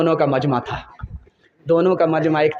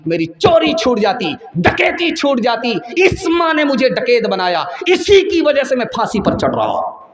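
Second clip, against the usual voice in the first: bitter accusation; 5 semitones higher than usual. Acted. Condemned son blaming his mother before the judge, anguished and raised. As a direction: let the son's grief and blame burst out.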